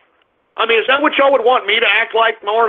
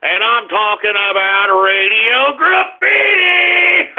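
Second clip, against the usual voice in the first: slow, drawn-out radio announcer intro; announcer hype; slower than usual. Acted. Radio host announcing his call-in segment, big and slow. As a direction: announce the segment name like a big show opener. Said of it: "everybody's favorite part of the broadcast".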